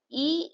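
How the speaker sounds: E said as a short "uh" schwa; French unaccented E. Shown as a demonstration. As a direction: say E as a neutral uh sound. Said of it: "E is pronounced as E".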